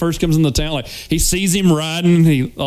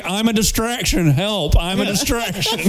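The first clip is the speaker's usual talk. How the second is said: deadpan distraction; 4 semitones higher than usual. Retold or imitated. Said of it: "standing there going".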